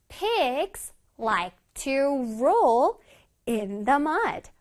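one word at a time with pauses; slow model reading. Shown as a demonstration. Teacher reading an example for children, word by word. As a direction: space out every word clearly.

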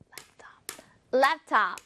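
숨소리로 속삭이며 반복; 소리 없이 속삭여 따라 해; 속삭이듯. Shown as a demonstration. 따라하기 속삭임. (아이들 따라하기를 속삭임으로)

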